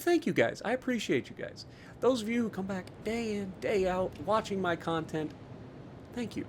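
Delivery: soft, heartfelt appreciation; hushed, grateful aside; sincere thanks. Real, not acted. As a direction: drop the volume and thank them sincerely. Sincere thanks to loyal viewers.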